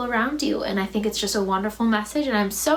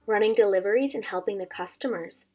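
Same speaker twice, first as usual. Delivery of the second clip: put-on gentle read-aloud voice for children; story narration. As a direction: tell it like a bedtime story to a class. Reads the picture book aloud.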